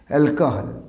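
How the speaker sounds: অ্যালকোহল as "al-ka-hal"; corrected pronunciation. Shown as a demonstration. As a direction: model অ্যালকোহল with an open "ka". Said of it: "আমার সঙ্গে বলার চেষ্টা করবে". (সঠিক অ্যালকোহল, "অ্যাল-কা-হাল")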